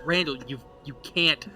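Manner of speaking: lightly voiced flustered pastor; mildly scolding, halting protest. Pastor stopping Randall in church, mild scolding. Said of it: "the pastor looks and says".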